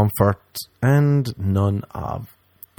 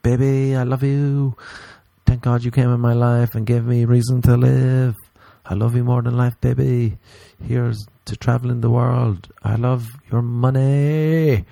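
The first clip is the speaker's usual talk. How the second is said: higher, sugary mock devotion to a man; gushing girlfriend; 3 semitones higher than usual. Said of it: "they'll be like".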